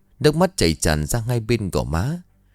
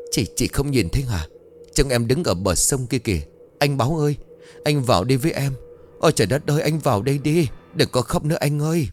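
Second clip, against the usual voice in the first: distant, dazed; 4 semitones higher than usual. Acted. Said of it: "âm thanh xa xôi dịu vợi như từ chốn âm ti vọng tới".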